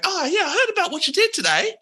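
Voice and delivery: very cheerful personality, high and giggly; cheerful tiefling. Acted. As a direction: gush at them, delighted. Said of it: "she's like".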